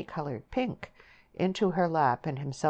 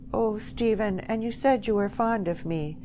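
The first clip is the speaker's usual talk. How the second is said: pleading; 7 semitones higher, 3 dB louder than usual. A narrator's reading. Frightened girl pleads with lover.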